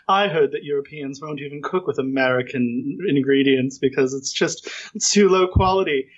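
lightly mimicked snobbish woman; a hint of haughty disapproval; self-important lady. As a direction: put on mild snootiness. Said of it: "very high opinion of herself".

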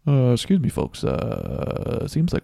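calm airline pilot announcement. Retold or imitated. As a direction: sound like a pilot on the intercom. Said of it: "That was a perfect pilot voice".

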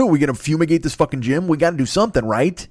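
Tasmanian Devil frenzy. Retold or imitated. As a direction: keep the whirlwind going, pleading. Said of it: "I spin up Tasmanian Devil style".

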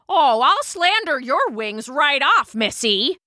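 high, heated retort; threatening. A narrator's reading. Queen bee threatening the queen wasp, heated. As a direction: spit the threat at a rival.

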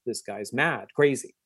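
retold mom making light of it, softly; lighthearted mom. Giggling mom to her child about the mad guy, lighthearted. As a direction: brush it off lightly and quietly, imitating a mother. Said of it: "she's taking a very lighthearted approach".

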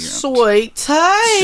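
high, exaggerated Southern drawl; hammed-up imitation of a Southerner; southern accent. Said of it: "that's my southern accent".

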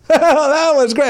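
high, loud diva gush; a singer gushing again. Retold or imitated. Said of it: "same thing twice".

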